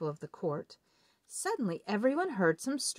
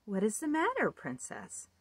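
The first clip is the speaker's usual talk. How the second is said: high frog voice, asking gently; a hint of a curious frog; lightly voiced frog asking again; 4 semitones higher than usual. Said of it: "The frog asked again".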